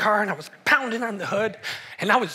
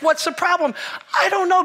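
high whiny voice; 10 semitones higher, 4 dB louder than usual. Retold or imitated. Wife asks, he whines.

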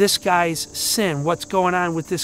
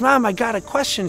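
put-on little girl; 4 semitones higher, 3 dB louder than usual. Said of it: "she says".

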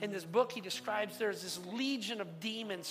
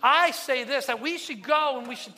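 louder, higher, a preacher's hammed-up demon; scheming demon proposing; 7 semitones higher, 13 dB louder than usual. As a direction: sell the plan boldly to the crowd. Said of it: "big shot demons comes forward and says".

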